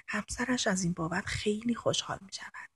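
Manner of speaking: soft whisper trailing off; hushed whispered coaxing. Acted. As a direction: breathe it quietly to her. Woman whispers advice to girl.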